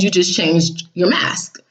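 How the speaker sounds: slow breathy whisper; whispered jab. Retold or imitated. Whispering to the ex that he only changed his mask.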